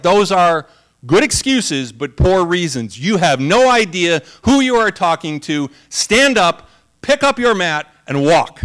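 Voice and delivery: a preacher voicing Jesus giving a firm command. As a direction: speak with divine authority, loud and deliberate. Pastor voices Jesus commanding.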